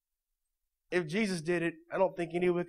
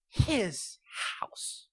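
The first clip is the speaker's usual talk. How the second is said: whispered; 6 dB quieter than usual. Shown as a demonstration. Preacher stressing Jesus owns the house, whispered. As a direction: drop to a breathy whisper.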